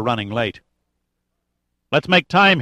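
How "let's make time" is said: higher, lightly shouted urging. A narrator's reading. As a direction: call out to hurry the group along. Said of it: "he shouted".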